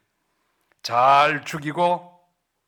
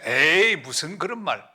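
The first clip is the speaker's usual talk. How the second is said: dismissive scoff; slower than usual. Acted. Young pastor brushing off seniors' warning.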